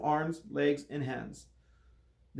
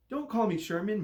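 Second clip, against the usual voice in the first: snarling; 7 semitones higher than usual. A narrator's reading. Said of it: "Mister Braun snarled".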